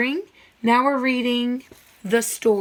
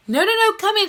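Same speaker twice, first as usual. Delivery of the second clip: high, louder insistent coaxing; eager Frog; 11 semitones higher, 5 dB louder, faster than usual. Acted. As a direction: bounce in, insisting. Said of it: "he was like".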